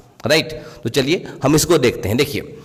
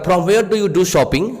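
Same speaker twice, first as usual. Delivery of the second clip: very slow, word by word, slightly raised pitch; slow example reading; 3 semitones higher, much slower than usual. Shown as a demonstration. Teacher giving students an English example sentence, slow and clear. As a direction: read it out like a dictation. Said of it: "teacher reads English example".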